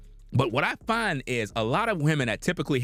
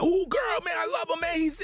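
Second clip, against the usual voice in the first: gushing female fan; 12 semitones higher than usual. Retold or imitated. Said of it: "Every minute".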